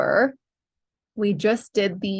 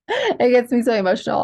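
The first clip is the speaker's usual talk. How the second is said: emotional; 4 semitones higher, faster than usual. Real, not acted.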